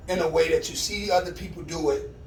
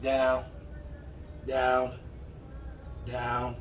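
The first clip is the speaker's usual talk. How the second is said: firm "down" fading lower and softer; command down; 3 semitones lower, 7 dB quieter, much slower than usual. Real, not acted. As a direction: settle the dog with falling commands. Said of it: "commanding dog to lie down".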